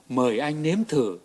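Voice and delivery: imitating the shop girl's soft, slow sweet talk; sweet coaxing murmur.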